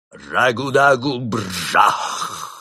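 put-on a monk casting over the unconscious girl; magic word. A narrator's reading. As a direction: roll out the gibberish spell. Spell over bleeding finger.

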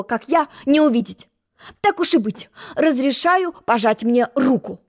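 high, condescending proclamations; haughty egg offering his hand; grand boasting egg. Acted. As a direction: grant her a great honour.

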